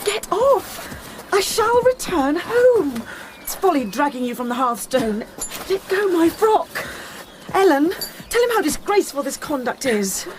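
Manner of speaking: sharp, rising cries to be let go; exasperated protest. Acted. Catherine shaking off Linton, exasperated and high. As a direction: pull free of the clinging boy.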